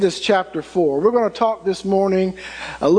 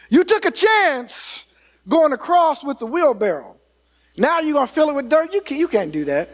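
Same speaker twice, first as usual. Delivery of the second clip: mock disbelief; 6 semitones higher than usual. Crowd doubting the daredevil.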